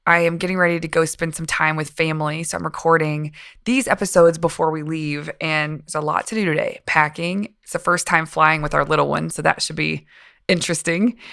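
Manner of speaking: just woke up, voice still heavy; morning voice. Real, not acted. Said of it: "the morning voice".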